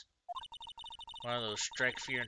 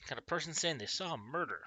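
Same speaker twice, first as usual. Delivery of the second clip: higher, a hint of Southern detective; lightly voiced Southern accent; 4 semitones higher than usual. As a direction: play the cop with a slight Southern accent. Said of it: "I gave him a southern accent".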